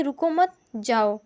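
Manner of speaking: रुको मत as one phrase, then जाओ alone; don't-stop reading, जाओ set apart; pause after मत. Shown as a demonstration. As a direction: break between मत and जाओ. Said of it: "यहाँ पे ऊपर वाले में".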